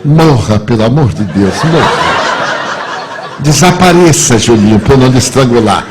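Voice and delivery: loud, comically desperate plea; exasperated outburst. Retold or imitated. Exposed adult begs boy to vanish, loud mock fury. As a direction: burst out loudly as if at wit's end.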